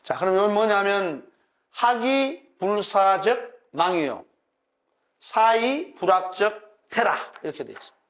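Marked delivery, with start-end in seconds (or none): 1.7-7.2 slow, measured recitation of a classical line; slow teacher's recital of an old saying; demonstrated reading. Shown as a demonstration. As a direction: read it out slowly, phrase by phrase. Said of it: "이렇게 읽으면 좋습니다".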